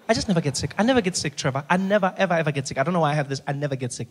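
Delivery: a touch of a stubborn mom, emphatic on never; mock-proud mother who never gets sick; imitating mom insisting. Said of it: "You know those people?".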